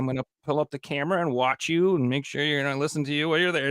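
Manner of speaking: high, rushed mock-controlling parent; overbearing parent. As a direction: rattle it off like a helicopter parent. Modern parents voiced.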